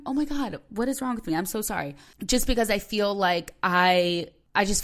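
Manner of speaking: real tears rising, pitch jumps up; apologising through a breaking voice; fighting tears. Real, not acted. Podcaster to listeners about her worst mood, fighting tears. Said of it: "then you don't sound like this".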